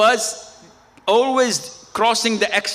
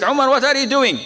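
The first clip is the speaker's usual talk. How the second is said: retold challenge; 7 semitones higher, 4 dB louder, faster than usual. Retelling startled question to loud reciter.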